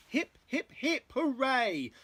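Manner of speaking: high, sing-song cheer; happy hooting. A narrator's reading. Duckbills cheer their hero Drip, happy hooting. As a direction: hoot out a jolly hurrah. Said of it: "the duckbills hooted happily".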